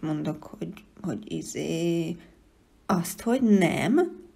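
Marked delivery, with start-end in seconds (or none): 2.9-4.2 slow loud bellow of nem. A narrator's reading. The No creature bellowing its own name. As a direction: roar the word out. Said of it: "üvöltötte a nem".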